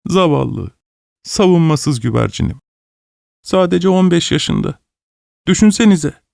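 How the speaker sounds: high, pleading father's lament; grieving lament. Acted. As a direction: mourn the lost daughter.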